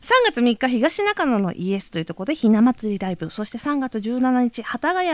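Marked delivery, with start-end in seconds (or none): 4.6-5.1 strained, off voice; 変な声. Real, not acted. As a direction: voice going odd after choking. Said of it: "なんか変な声出てますけど". (変な声)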